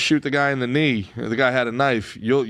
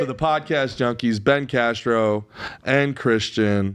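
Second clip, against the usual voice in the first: show announcer; much slower than usual. Acted. Host signs off from the new studio, slow announcer delivery. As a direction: draw out each phrase like an announcer.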